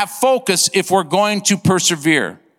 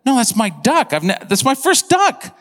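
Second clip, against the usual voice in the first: retold protest; 5 semitones higher than usual. Retold protest to his friend.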